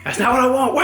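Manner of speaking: high-pitched mock baby wail; imitated crying baby. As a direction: whine and wail like a fussy baby. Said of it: "she was like".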